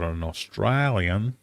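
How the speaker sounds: slow, badly attempted Australian accent. Quiz host reading out a dog breed, attempted Australian accent. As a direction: have a go at an Australian twang, drawn out. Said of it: "That was my fabulous Australian".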